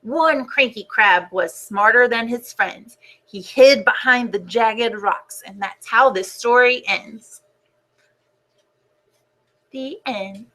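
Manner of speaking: put-on gentle storybook narration for kids; reading to children. A narrator's reading. Teacher reading the class a book, storybook voice. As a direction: read it like story time on the rug.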